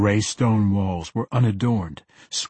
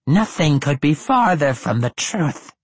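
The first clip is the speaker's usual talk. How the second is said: ancient lich voice; 4 semitones higher, 4 dB louder than usual. A narrator's reading. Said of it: "said the Lich".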